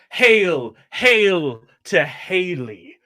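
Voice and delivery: loud showman's acclaim; dramatic entrance. Acted. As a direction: hail a hero before the crowd. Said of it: "making a dramatic entrance, and say".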